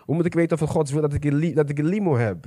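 low, subdued sceptical questioning; doubter's thoughts. Acted. Preacher voices someone doubting how to know God's will, subdued. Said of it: "ik zie iemand denken".

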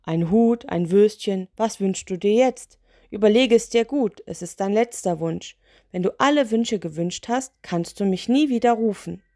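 mildly irritated lantern spirit; annoyed. Acted. Spirit warns of the last wish, mildly annoyed. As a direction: tick them off with a touch of impatience. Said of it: "sah Zickzack sehr genervt aus".

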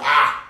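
short loud "ah"; retold cry of dismay; startled yelp. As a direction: yelp in alarm. Alarmed reaction in retold talk.

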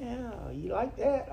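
high, slow, pleased imitation of the friend; proud friend. Friend asking about his perfect yard, proudly pleased. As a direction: play the proud neighbor fishing for praise. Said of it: "He said".

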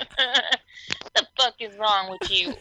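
a hint of a mock-offended bystander; mock outrage. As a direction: drag it out like a scandalized bystander.

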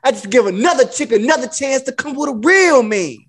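retold pimp bragging; going in with mock pimp swagger; lightly put-on cocky pimp; Iceberg Slim. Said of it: "I was Iceberg Slim in that shit".

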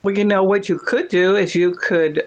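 ordinary talk, nothing marked

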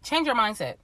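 blocked nose, stuffy voice; congested voice. Real, not acted. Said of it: "I'm a little congested".

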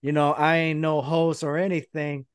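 cocky cut-in, mildly played up; L A Knight. Wrestler challenging Cena to team up, mock promo voice. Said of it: "L A Knight gets the phone".

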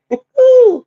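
a sudden high laugh; high burst of laughter. Real, not acted. Laughing at her past self while telling the story. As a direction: laugh out loud at herself.

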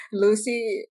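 slow, stretched persona name; alter ego voice. Shown as a demonstration. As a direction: drawl it like a sassy alter ego. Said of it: "que eu fazia a voz quando eu tava falando inglês". (nome dito devagar, com voz de alter ego)

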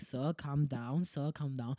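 soft and slow, talking a caller down; calming voice. Retold or imitated. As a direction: hush him gently, drawn out. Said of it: "I was like".

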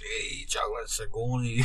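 put-on failed Scottish accent, drifting off; attempted Scottish accent. Naming a silly band, slipping into a Scottish accent. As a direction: try a Scottish accent and lose it. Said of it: "I start trying to go Scottish".

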